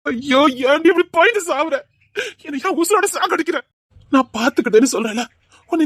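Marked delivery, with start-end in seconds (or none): 0.1-3.6 crying plea. Acted. Lover begs her to elope.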